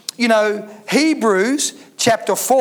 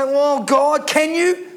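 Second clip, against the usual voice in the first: doubting believer; 3 semitones higher, slower than usual. Acted. Doubting believers asking God, voiced with a rising question. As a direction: ask it as a doubter would. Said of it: "And we say".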